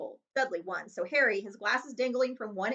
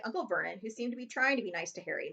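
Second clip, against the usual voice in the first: plain reading voice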